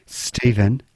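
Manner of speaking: like you've just woken up; pillow voice. Real, not acted. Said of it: "said in his pillow voice".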